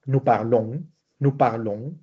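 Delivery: "parlons" with its last vowel sent through the nose; nasalized ending. Shown as a demonstration. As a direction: end "parlons" on a rising nasal "on", no hard N. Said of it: "se nasaliza".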